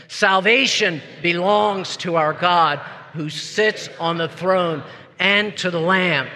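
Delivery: slow, measured group proclamation; loud voice. Shown as a demonstration. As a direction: lead a congregation in a drawn-out cry. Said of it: "together in a loud voice".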